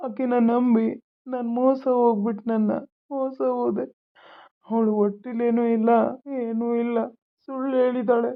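tearful confession of being cheated; weeping and betrayed; crying. Acted. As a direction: pour it out through tears, haltingly. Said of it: "ಅಳೋದ್ ನಿಲ್ಸು".

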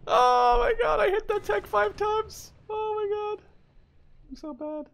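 high, giggly self-mockery; high laughing voice; laughing through words. Real, not acted. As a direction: laugh at your own bad aim. Laughing at own misses.

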